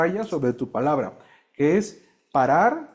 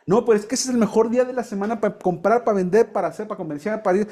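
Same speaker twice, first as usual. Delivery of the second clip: higher-pitched listing of excuses; mock objection; 4 semitones higher than usual. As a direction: protest as a keen trader would, hammed-up. Acting out another objector.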